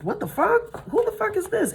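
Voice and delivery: high-pitched disbelieving exclamation; incredulous outburst. Real, not acted. Tarot reader reacting to a surprise card, incredulous. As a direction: burst out high, thrown by what turned up. Startled by a card she turns up.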